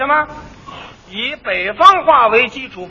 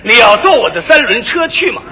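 film-star Mandarin; 3 semitones lower than usual. Retold or imitated. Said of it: "蹬三轮儿这位也这味儿".

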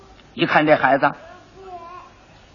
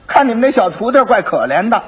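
higher, louder constable voicing fake pity over 徒弟儿; mock pity; 5 semitones higher, 4 dB louder than usual. Constable pretending to pity the 小徒弟儿 while pocketing money, mock sympathetic. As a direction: lean on 徒弟儿 with put-on sympathy.

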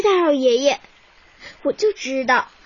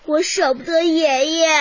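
tearful. Acted. Girl refusing to leave grandpa.

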